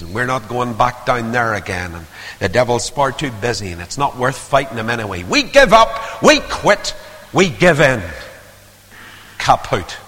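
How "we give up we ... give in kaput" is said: mock defeated cry. Voicing defeated Christians.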